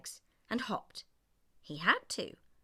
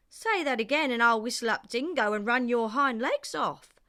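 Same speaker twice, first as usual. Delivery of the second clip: stern threat; 4 semitones higher, 7 dB louder than usual. A narrator's reading. Nakwong threatens Kangaroo.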